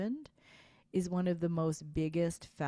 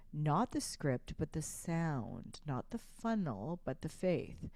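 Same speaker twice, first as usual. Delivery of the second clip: measured, hushed contrast with pauses; contrastive stress. Shown as a demonstration. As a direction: set each pair against each other with slow weight. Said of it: "what we call the millionaire's voice".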